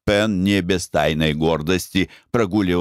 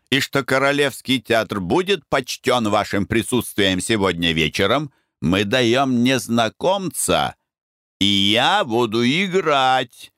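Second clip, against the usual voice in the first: pompous actor; 4 semitones higher than usual. Acted. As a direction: declaim it like a ham actor. Actor boasts of his role.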